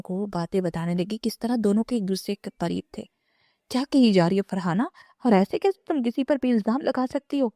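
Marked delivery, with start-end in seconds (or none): 3.7-7.5 angry. Acted. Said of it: "Fatima بیگم نے غصے سے کہا".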